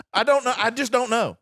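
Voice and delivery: high, loud comic helplessness; mock exasperation. Comedian confessing he never understood Benghazi, mock exasperated. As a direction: throw up your hands, pitch jumping. Hammed-up confession of total ignorance.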